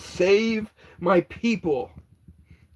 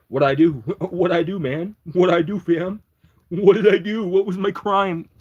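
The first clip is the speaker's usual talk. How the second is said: rising, louder indignant what'd I do; mock innocent protest; 3 semitones higher, 3 dB louder than usual. Protesting a viewer's Most Wanted joke, mock-indignant. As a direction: play wide-eyed innocence, building.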